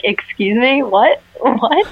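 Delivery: retold confusion. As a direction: act out mild disbelief. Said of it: "and we're like".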